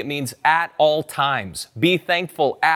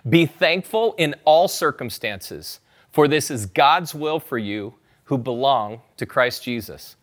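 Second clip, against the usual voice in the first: repeated scripture reading; 2 semitones lower than usual. Shown as a demonstration. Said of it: "You've heard me say it twice".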